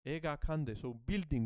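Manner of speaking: ordinary delivery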